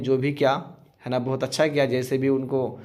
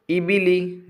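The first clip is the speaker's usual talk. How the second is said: fast fluent reading; 4 semitones higher, slower than usual. Shown as a demonstration. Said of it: "जल्दी से पढ़ेंगे".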